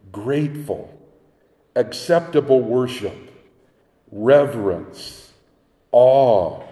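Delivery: each word set apart with pauses; preacher listing the key words slowly; slow word-by-word recap. Shown as a demonstration. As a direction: let every word land alone. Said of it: "recaps key words one by one".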